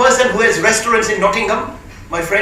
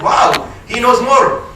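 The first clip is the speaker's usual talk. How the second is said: amazed wow; slower than usual. Retold or imitated. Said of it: "I said".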